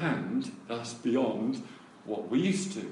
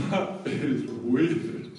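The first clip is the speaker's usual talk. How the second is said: imitated amazement; much slower than usual. Imitating kids staring in amazement.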